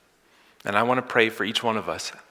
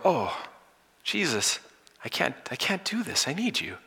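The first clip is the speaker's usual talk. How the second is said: hushed, higher-pitched begging; desperate plea; 6 semitones higher, 6 dB quieter than usual. Acted. Believer to Jesus after falling, acted soft plea. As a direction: plead softly for help, as if at rock bottom.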